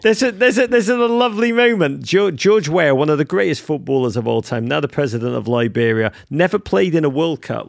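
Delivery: high and loud, gushing; excited. Real, not acted. Praising George Weah to his co-host, loud and gushing. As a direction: make it a big lovely moment.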